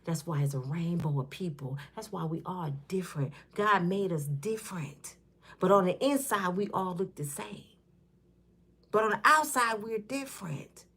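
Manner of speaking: quiet, tender sincerity; gentle and soft. Real, not acted. Talking viewers out of hate, quiet and sincere. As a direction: soften it to make peace. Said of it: "I gotta ease this up".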